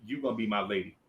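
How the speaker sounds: low soft pickup line; smooth low come-on. Retold or imitated. Boy at twelve smoothly tells Lisa, low and soft. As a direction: play it cool and low. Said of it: "I'm like".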